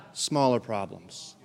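low, soft and slow "smaller problems"; shrunken small voice. Shown as a demonstration. Preacher shows congregation big God shrinks problems, small hushed voice.

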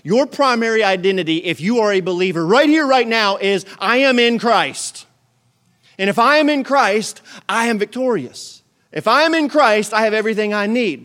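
loud, high preaching; rising sermon proclamation; full-force preaching. Acted. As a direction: preach it out with fire.

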